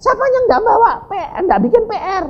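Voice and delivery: high-pitched schoolteacher addressing the class; teacher calling out. Acted. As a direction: call for a show of hands.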